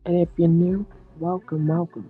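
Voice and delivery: high, bright preacher host voice; pastor voice. Pretend. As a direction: play a hyped pastor welcoming viewers. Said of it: "This is Pastor Hernandez".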